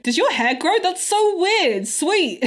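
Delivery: high, marvelling curiosity; imitated fascination. Imitating Bashir quizzing Data about his body, amazed. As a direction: play an over-keen fan.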